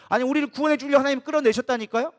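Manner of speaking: ordinary talk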